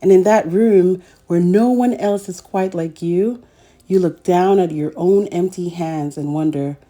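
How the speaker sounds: gentle, measured picture-book narration; reading to children. A narrator's reading. Storyteller reading a picture book to young children, gently.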